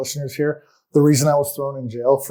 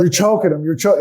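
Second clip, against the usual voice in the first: raised, alarmed caseworker voice; mock alarmed shout; 4 semitones higher, 4 dB louder than usual. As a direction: panicky scolding, higher and louder. Mocking the supervisor's alarm.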